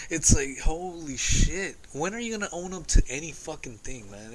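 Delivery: exasperated venting; frustrated. Real, not acted. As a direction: vent in fed-up disbelief. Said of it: "it's so frustrating".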